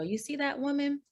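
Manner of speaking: high, impressed whisper-to-a-friend tone; admiring stranger. Retold or imitated. Stranger nudging a friend across the room, impressed and high. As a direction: point her out across the room, wide-eyed. Imagined stranger pointing her out.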